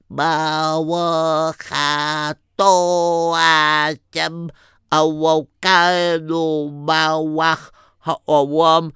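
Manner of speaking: put-on slow, careful child's recitation; toddler reciting a bracha. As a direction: sound it out like a little boy learning. Toddler saying a blessing.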